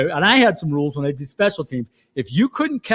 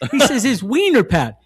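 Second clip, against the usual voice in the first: laughing; 5 semitones higher, 4 dB louder than usual. Real, not acted. Retelling funny coach story.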